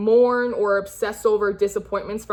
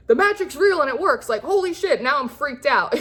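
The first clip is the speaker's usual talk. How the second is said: high-pitched astonished outburst; playfully overwhelmed, voice pitched up; mock freak-out; 6 semitones higher than usual. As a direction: act amazed and a little panicked.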